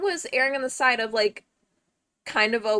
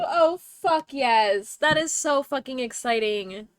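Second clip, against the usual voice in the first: loud, drawn-out delight; excited cheer; 5 dB louder, slower than usual. Real, not acted. Streamer celebrating a friend finding a venue, excited cheer. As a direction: celebrate it with real relish.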